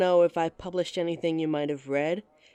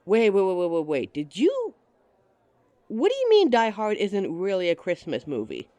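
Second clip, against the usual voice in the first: playful outrage; 5 dB louder than usual. Acted. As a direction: pretend to be scandalised, loudly. Indignant at his Die Hard claim.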